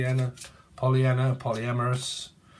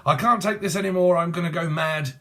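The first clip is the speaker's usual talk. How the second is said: louder, higher acted outburst; mock exasperation; 3 semitones higher, 4 dB louder than usual. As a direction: play someone at breaking point, lightly. Acts out a breakup row.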